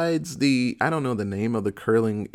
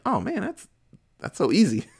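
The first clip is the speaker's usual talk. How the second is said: laughing; 7 semitones higher than usual. Real, not acted. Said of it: "And I'm like".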